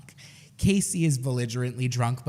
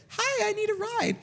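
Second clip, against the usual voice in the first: cutesy. Retold or imitated. Texting the driver for rides.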